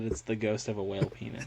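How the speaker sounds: whispered joke. Real, not acted. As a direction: whisper the punchline to your co-host.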